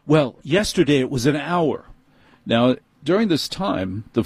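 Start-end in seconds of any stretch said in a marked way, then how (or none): 0.1-1.9 dismissive manager. Retold or imitated. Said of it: "no, he said".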